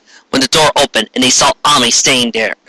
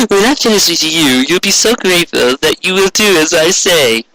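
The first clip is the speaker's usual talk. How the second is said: higher sneering villain voice with a laugh; gloating villain; 6 semitones higher than usual. Acted. Soysite gloating over captured Ami, sneering villain voice. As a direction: purr it like a wicked sorceress.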